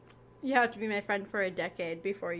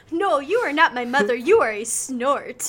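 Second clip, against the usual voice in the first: bird from a picture book; 3 semitones higher, 9 dB louder than usual. Retold or imitated. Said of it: "Are you like that bird in Are You My Mother?".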